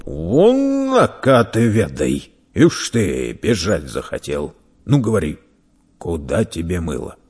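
lightly voiced gruff interrogator; bullying merchant. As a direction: jeer at the runaway, then settle into questioning. Merchant flicks and questions boy.

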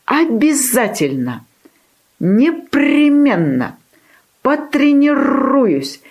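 high, drawn-out bold vows; emboldened puppy. A narrator's reading. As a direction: stretch each promise with puppy bravado. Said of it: "расхрабрился щенок".

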